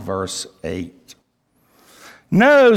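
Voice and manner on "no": loud, high, forceful "No"; emphatic refusal. Acted. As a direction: refuse outright, punching it out. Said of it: "The no is emphatic".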